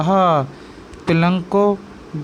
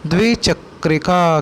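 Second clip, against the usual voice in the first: slow teaching word; slower than usual. Shown as a demonstration. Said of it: "उसे हम बोलते हैं".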